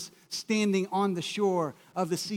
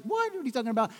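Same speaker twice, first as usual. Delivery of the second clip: sharp high-pitched "What?", then puzzled; startled, can't believe it; surprised disbelief; 4 semitones higher, much faster than usual. Retold or imitated. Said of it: "Nathanael's like".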